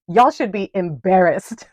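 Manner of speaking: said through a real laugh; laughing at them while scolding. Real, not acted. Mocking Trump voters, laughing.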